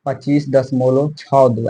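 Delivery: पच्चीस दशमलव छः दो read slowly, digit by digit after दशमलव; slow careful demo reading; reading decimal in Hindi. Shown as a demonstration. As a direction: say छः and दो as separate digits, unhurried. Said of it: "Hindi में इसे ये बोल सकते हैं".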